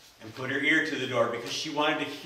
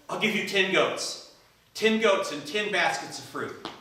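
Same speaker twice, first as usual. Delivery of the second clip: eager; 5 semitones higher than usual. Acted. Suitor raises offer eagerly.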